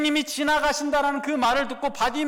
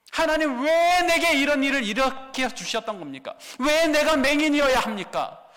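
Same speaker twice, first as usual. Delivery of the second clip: bitter complaint; 3 semitones higher than usual. Acted. Preacher voices blind man's bitter complaint.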